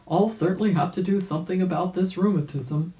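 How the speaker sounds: a hint of an old rabbit, determined; old rabbit resolving. Old rabbit deciding to fix his rheumatism, lightly voiced. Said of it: "said Uncle Wiggily".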